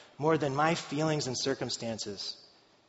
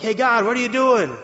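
mock exasperated cry; 9 semitones higher, 11 dB louder than usual. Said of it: "And we're like".

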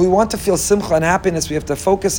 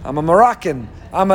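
resigned excuse. Retold or imitated. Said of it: "the next day you say".

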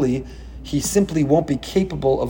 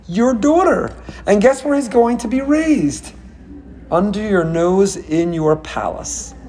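mocking taunt; 3 semitones higher than usual. God taunting Pharaoh about the savior, gloating. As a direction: taunt him, savoring every twist. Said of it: "Hashem says".

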